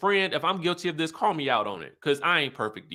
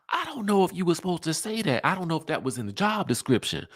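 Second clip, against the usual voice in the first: giggling, quick, half-shocked; laughing at what a castmate said; laughing disbelief; 5 semitones higher, faster than usual. Retold or imitated. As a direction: laugh through the words in disbelief. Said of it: "I was like".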